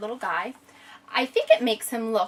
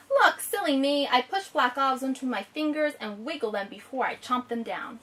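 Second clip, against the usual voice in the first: story reading; 2 semitones higher than usual. Acted. Reads the picture book aloud.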